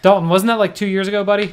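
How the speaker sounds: loud teasing call; teasing shout. Real, not acted. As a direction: rib him loudly. Teasing Dalton loudly.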